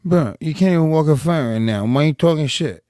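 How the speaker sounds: lightly voiced trash-talking fighter; a hint of a fighter's taunting, reading tweets aloud; Nate Diaz. Co-host reads a tweet to a rival, lightly impersonated trash talk. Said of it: "you do a pretty good Nate Diaz impression".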